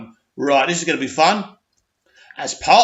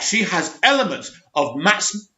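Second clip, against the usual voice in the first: laughing. Real, not acted.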